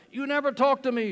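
loud, high mock yell at her husband; mother yelling at a silent father; retold yelling. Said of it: "she was yelling".

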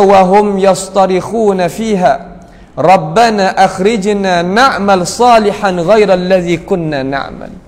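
slow, drawn-out Arabic verse; Quran recitation. Acted. Preacher quoting the sinners' plea from the Quran, slow recitation. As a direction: recite the verse with lengthened syllables.

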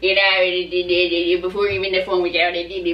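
put-on grumpy old Chicago man; elderly Chicago parent ranting; Chicago accent. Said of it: "talk in strong Chicago accents as if we're, like, parents".

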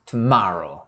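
tomorrow said "tu-MA-ro", force on MA; stress on second syllable. Shown as a demonstration. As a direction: hit the middle of tomorrow. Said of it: "마 쪽에 힘을 실어서". (tomorrow의 '마'에 힘주기)

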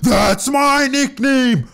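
shrill outraged squeal, high and slow; high indignant outburst. Acted. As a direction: yell it high like a wounded ego. Shaq outraged at Superman tribute.

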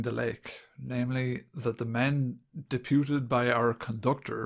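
put-on understated dramatic read of an old report. Shown as a demonstration. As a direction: read it out with mild solemnity. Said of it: "I'll just do it, like, dramatically".

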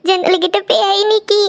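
slow, scared whimpering statement; frightened tearful report. Acted. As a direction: drag out the words in acted fright. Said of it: "எதுக்கு அழுதுட்டு இருக்கீங்க".

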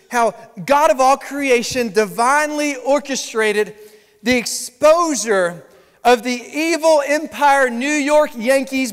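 slow, deliberate and clear; slow, clear telling. Shown as a demonstration. Pastor telling the front row the news, slow and clear. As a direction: spell it out slowly for the front row. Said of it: "If I said that".

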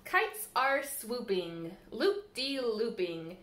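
lilting, sing-song storybook reading; bouncy picture-book read-aloud; reading to children. Acted. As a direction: read the rhymes to little ones at storytime.

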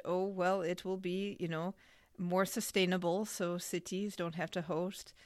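lightly put-on French accent. Host quotes the IOC to co-host, French accent. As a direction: attempt at a French-accented official. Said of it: "saying this with a French accent".

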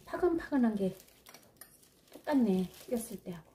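talking around a hot mouthful; chewing hot food while speaking; mouth full of hot food. Real, not acted. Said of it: "너무 뜨겁거든요". (뜨거운 음식을 입에 물고)

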